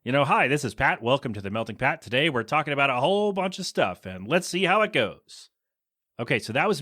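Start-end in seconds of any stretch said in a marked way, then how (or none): 0.2-5.5 a lightly put-on, stiff robot read; best robot voice. Shown as a demonstration. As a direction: play a podcast robot, barely changed from his own voice. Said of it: "I guess that's my best robot voice".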